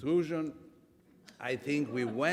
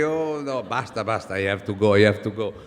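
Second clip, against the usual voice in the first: loud comic protest, breaking into laughter; mock lovers' parting; 8 dB louder than usual. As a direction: act out a half-hearted farewell, loudly. Acts out reluctant lovers parting.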